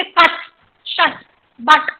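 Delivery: very short अ in कट, शट, बट; short vowel. Shown as a demonstration. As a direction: say कट, शट, बट with the briefest uh. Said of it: "ये सबसे छोटा अ है". (कट, शट, बट में सबसे छोटा अ)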